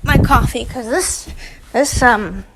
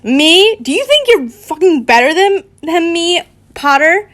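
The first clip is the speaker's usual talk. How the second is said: acted indignant fury, somewhat raised; furious; 5 semitones higher, 4 dB louder than usual. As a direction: challenge him in offended anger. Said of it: "Now Draco was furious".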